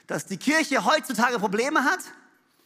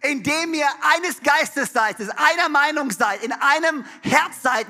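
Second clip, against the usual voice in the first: quoted plea; 3 semitones higher, 4 dB louder, slower than usual. Retold or imitated. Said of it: "sagt er".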